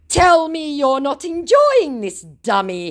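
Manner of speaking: high, loud, drawn-out challenge; mock scammer taunt. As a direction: imitate a goading scammer.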